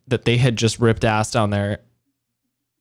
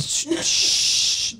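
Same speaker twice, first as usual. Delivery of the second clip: shushing; 4 dB quieter than usual. Real, not acted. Shushing someone during recording.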